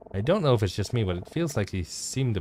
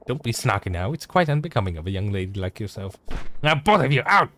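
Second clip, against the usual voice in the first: haughty lady voice. Acted. Same lady scolding.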